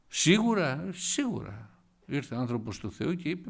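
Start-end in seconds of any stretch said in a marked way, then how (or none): 0.1-0.9 incredulous question. Retold or imitated. Hezekiah questions the prophet.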